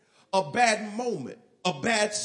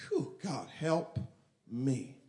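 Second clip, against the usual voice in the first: softer, lower sighing plea; weary prayer; 8 semitones lower, 5 dB quieter, slower than usual. Retold or imitated. A tired believer whispering up a short prayer, softer. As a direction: breathe it out like you're spent.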